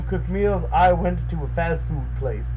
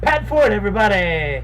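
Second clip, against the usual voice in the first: excited introduction; 2 semitones higher, 6 dB louder than usual. Real, not acted. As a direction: present him like a host. Announcing roommate to camera.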